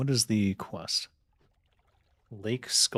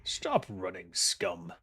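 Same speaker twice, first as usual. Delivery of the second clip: goblin voice; 3 semitones lower, 4 dB quieter, slower than usual. Pretend. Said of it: "I gotta work on my goblin voice".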